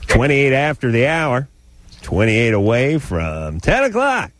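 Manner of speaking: booming radio announcer delivery. Retold or imitated. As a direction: play it like a cheesy DJ. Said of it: "does your dad use that radio voice?".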